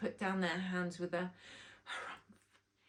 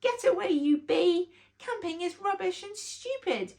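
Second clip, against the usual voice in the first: loud, high angry yell at the bee; angry shout; 9 semitones higher, 7 dB louder than usual. A narrator's reading. Rory yelling at the bee to get away, angry. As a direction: shoo the bee off, furious. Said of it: "swat him away like an angry ninja".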